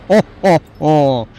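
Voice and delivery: a hint of a jolly Santa-pirate, slow; slow hammy ho-ho-ho Merry Christmas. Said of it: "terrible combination of Santa and a pirate voice".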